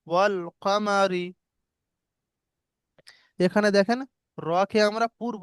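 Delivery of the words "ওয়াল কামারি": very slow, lips spread on রি; slow recitation. Shown as a demonstration. Teacher reciting the light র example slowly. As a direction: stretch ওয়াল কামারি out slowly. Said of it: "মুখটা ছড়িয়ে যাচ্ছে".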